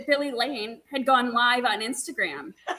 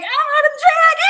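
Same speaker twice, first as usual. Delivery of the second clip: high laughing yell of alarm; panicked laughing shout; 14 semitones higher, 8 dB louder than usual. Retold or imitated. Racer retelling her mistake, shouting high and laughing. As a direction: shout it out half laughing, lost alone on the track.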